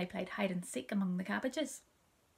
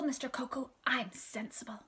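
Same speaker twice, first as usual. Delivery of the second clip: put-on little girl reassuring; 4 semitones higher than usual. A narrator's reading. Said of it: "My naughty little sister said".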